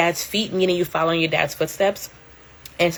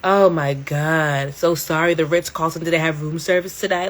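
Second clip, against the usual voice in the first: mock sympathy. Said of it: "I'm like".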